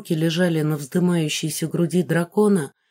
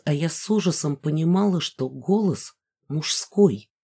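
ordinary delivery, nothing marked

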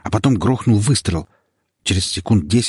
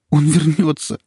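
frightened insistence; 8 semitones higher, 4 dB louder than usual. Acted. Terrified wife insists.

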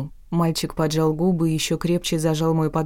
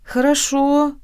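high, smiling agreement; warm, smiling; 9 semitones higher, 4 dB louder, slower than usual. A narrator's reading. Redhead accepting the refusal, warmly smiling. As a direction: agree lightly with a smile in the voice. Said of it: "тепло улыбнулся Рыжик".

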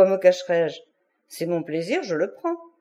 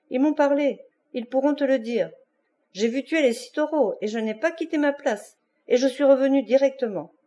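a touch of tears, pitched higher; tearful voice; 4 semitones higher than usual. Acted. Concha confesses to her lover after the blows, lightly tearful. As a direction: plead through mild tears. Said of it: "la voix pleine de larmes".

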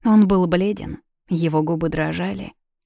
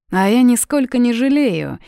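higher, louder, grinning defiance; smiling; 6 semitones higher, 6 dB louder than usual. A narrator's reading. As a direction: say it through a broad grin. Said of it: "белозубо улыбнулся он".

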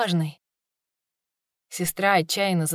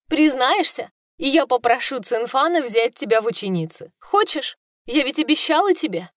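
higher, sugary tempting voice; coaxing sister; 4 semitones higher than usual. Acted. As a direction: lure her in with sweetness.

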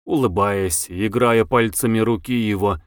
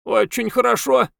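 squeaky toy voice, much higher; talking doll; 11 semitones higher than usual. A narrator's reading. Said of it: "пискливым голосом игрушки".

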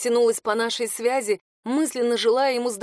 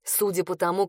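usual speaking voice

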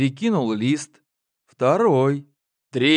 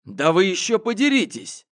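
sharp higher exclamation; exclaimed outburst; 7 semitones higher than usual. A narrator's reading. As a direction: blurt it out in exasperation. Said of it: "вырвалось у меня". (выкрикнуть в сердцах)

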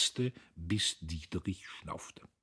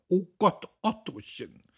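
high, thin wail of a wife; small high fretful voice; 12 semitones higher, 7 dB louder than usual. A narrator's reading. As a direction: cry out thinly, pitched far up. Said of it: "eine dünne Stimme".

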